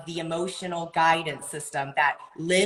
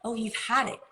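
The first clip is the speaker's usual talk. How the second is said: calm validating; 5 semitones higher, 5 dB quieter than usual. Retold or imitated. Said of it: "repeat what they're saying".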